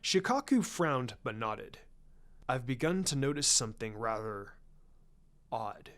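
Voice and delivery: a hint of a guarded patriarch sharing a secret; lightly voiced Hiashi, hushed. Hiashi swearing Shikaku to secrecy, lightly voiced and hushed. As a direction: keep it low and confidential.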